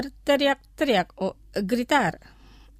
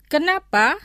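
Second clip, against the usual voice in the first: careful model pronunciation, pitched higher; slow pronunciation; 4 semitones higher, 5 dB louder than usual. Shown as a demonstration. Teacher models vocabulary for listeners to repeat, slowly. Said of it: "Los pronunciaré lentamente".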